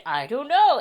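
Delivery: loud, stammering, high; flustered stammer. Retold or imitated. Stunned shopper answering the clerk, loud flustered stammer. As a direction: stumble over it, caught off guard. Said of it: "And I just went".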